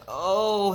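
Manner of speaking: loud, high play-acted moan; hammed-up groan. A narrator's reading. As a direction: groan it out as if dying. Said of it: "he groaned".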